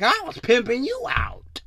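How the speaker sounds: whisper. Acted. To the audience, a sly whispered aside. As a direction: breathe it out like a secret.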